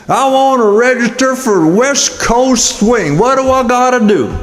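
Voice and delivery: second dancer asking how to register, squeaky; high-pitched guy. Acted. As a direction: play a squeaky eager dancer.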